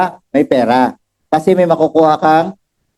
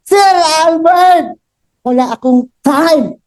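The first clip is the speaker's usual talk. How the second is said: mock busy client; 11 semitones higher than usual. Seller mimics a doctor client who has no time, mock whiny. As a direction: stretch it out like a busy doctor's excuse. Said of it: "sabi mo".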